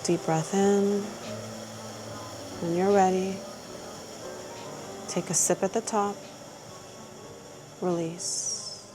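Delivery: soft, spaced-out breathing cues with long pauses; guided breathing. Real, not acted. Practitioner guiding a client through a breath, calm guided breathing.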